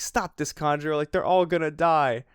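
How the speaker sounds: mild high-pitched mock plea; Momonosuke begging. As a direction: plead lightly, as if imitating a desperate child. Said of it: "like, begging him to stop".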